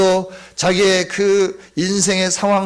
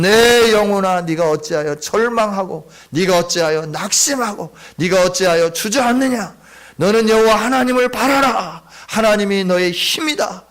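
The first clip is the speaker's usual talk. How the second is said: louder, firm command to his own soul; 3 dB louder than usual. Retold or imitated. David commanding his own soul, loud firm decree. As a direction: order yourself to stand up and hope. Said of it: "자기 자신을 향하여 명령하는 거예요".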